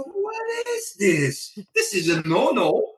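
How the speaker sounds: indignant. Retold or imitated. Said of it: "I go".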